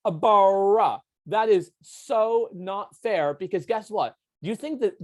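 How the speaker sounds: a loud mock French guy, slow and indignant; French dude. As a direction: play the outraged French dude, not too far from own voice. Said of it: "the French dude is like".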